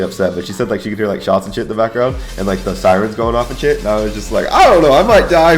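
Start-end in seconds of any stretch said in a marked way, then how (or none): 4.5-5.6 raised, louder mock-frantic voice; retold panic. Airman phoning mom during shooting, retold panic. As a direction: blurt it out higher, imitating alarm.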